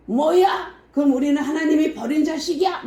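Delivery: high, fast indignant question; angered crowd. Retold or imitated. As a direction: act out an offended crowd, pitched high and quick. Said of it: "더 화가 난 거예요".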